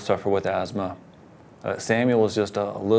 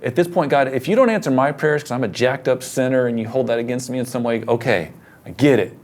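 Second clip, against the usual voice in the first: retold furious prayer; 3 semitones higher, 4 dB louder than usual. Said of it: "I'm furious at God".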